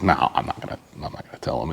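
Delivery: low, very soft mumbled brush-off; retold reluctant refusal. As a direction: drop voice and volume, imitating your own refusal.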